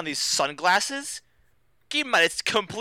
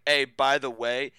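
slow, drawn-out mock cop speech; offhand warning; 3 semitones lower, slower than usual. Retelling the cop warning kids about a murder, offhand warning. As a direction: spell it out slowly, as if casually mentioning it.

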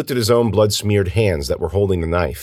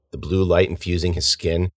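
usual speaking voice

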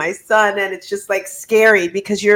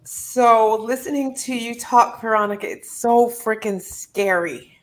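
emotional; 3 dB quieter than usual. Real, not acted. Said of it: "I'm getting emotional".

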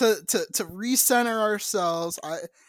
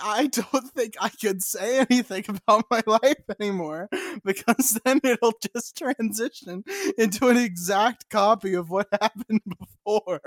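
trying not to laugh. Real, not acted. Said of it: "Stop making me laugh more".

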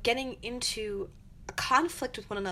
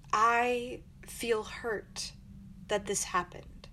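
calm I statement; much slower than usual. Shown as a demonstration. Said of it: "Instead say".

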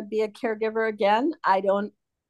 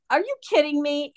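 higher, mock outraged question; incredulous; 5 semitones higher than usual. Wife retelling scolding husband over his sock, incredulous. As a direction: toss it back in disbelief. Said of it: "I said".

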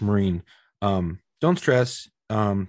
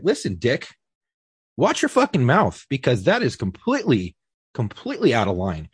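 imagined telling off. Pretend. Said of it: "I wanted to be like".

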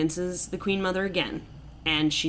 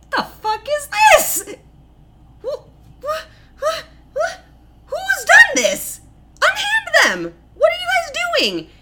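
much higher, louder, hammed-up outraged king; outraged shout; 6 dB louder than usual. King returning from war yells at the scene, outraged. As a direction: bellow like a king finding chaos at home.

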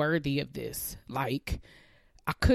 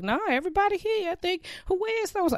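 staff counting heads; faster than usual. Retold or imitated.

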